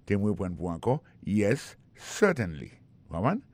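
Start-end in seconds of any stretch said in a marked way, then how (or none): 1.2-2.7 "certainly" with the accent on CER, then falling away; first-syllable stress. Shown as a demonstration. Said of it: "Accent tombé sur le premier syllabe".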